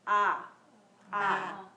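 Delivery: loud open ah from the throat. Shown as a demonstration. Teacher demonstrates ah for students, from the throat. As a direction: let the ah ring from the throat. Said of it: "comes naturally from the throat".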